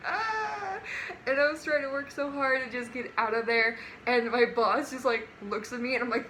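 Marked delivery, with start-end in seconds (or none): 0.1-0.8 long, high "ah" of suppressed laughter; mock helpless whine; high stifled squeal. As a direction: squeal softly, holding it in. Retelling her struggle not to laugh.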